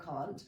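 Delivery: "can't" said as one clipped syllable with a final t; standard pronunciation. Retold or imitated. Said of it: "instead of".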